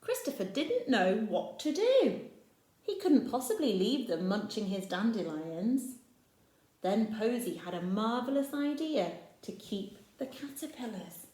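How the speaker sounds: storybook reading voice; story narration. A narrator's reading. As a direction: read it to the little ones. Reads picture book aloud.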